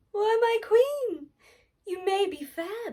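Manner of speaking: high, slow and otherworldly mirror speaking; magic mirror voice. Acted. Magic mirror answers queen.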